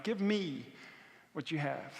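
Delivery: quiet, unhurried appeal as God; gentle God. Acted. God asking the couple to hand it over, gentle and quiet. Voices God's gentle request.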